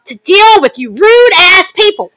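slow, emphatic mock yell; slow mock shout at rude strangers; retold shout. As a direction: lay down the boundary, loudly. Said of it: "I go".

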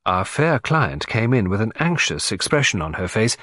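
ordinary delivery

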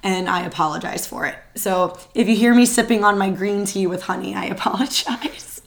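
groggy, hoarse end-of-term voice. Real, not acted. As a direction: talk through a worn-out hoarse throat. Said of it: "I still sound like a groggy old man".

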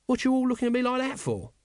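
high, defensive whine; sullen. Acted. Nobby reacts to the watchmen's stares, sullenly. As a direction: sulk at being stared at. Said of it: "added sullenly".

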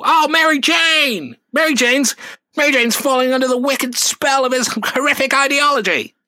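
hammed-up superhero anguish; mock Spider-Man despair. Spider-Man crying out over Mary Jane, high and loud.

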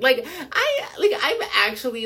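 high, breaking into a nervous laugh; laughing in shocked disbelief. Real, not acted. Laughs nervously about scary trend.

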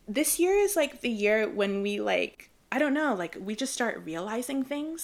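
a light impression of a dreamy Kylie Jenner. Friend mimics Kylie Jenner musing to her cohost, lightly voiced. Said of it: "I sound like Kylie Jenner in twenty sixteen".

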